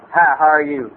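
low-pitched cowboy-bar regular; Ernie. Retold or imitated. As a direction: imitate a barfly's low greeting. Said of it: "old Ernie will come up next to me and go".

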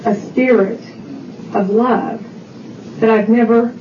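deliberate, broken into short phrases; retold solemn, measured testimony; very distinct words. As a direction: pause before each phrase, unhurried. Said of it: "the cab driver was very distinct in his words".

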